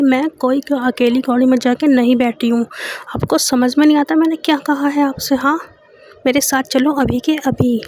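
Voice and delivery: firm, insistent scolding; bossy demand. Acted. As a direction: order her to come right now. Girlfriend demands Maysha come now.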